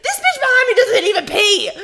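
high, loud laughing through the words; cracking up mid-sentence. Real, not acted. Laughing while telling story.

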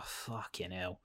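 very quiet, resigned aside; weary muttered curse. Retold or imitated. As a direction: curse under your breath, fed up with it. Weary reaction to a repeated scene.

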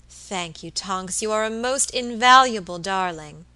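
syrupy praise for a helper; sweetly gushing. Acted. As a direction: gush it out with a big sweet smile. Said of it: "exclaimed Missus Vincent with her sweetest smile".

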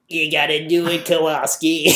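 lightly voiced cartoon slug lady; a hint of the slug character. Slug lady from Monsters, Inc. to Kowalski, light impression. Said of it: "The slug lady is like".

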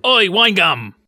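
the corrected take of the shout; the real words. Retold or imitated. Host replaying the corrected line, clear shout. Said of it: "he shouts wine gum".

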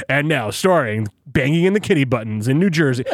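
mock movie-promo announcer read; voiceover announcer. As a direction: lightly imitate a promo man introducing a show. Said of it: "if he was to do voiceover porn".

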